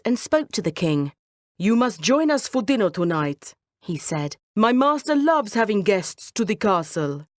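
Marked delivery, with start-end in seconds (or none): 1.6-7.3 lightly voiced cat, inviting; charming cat. Cat inviting the king to dinner, charming.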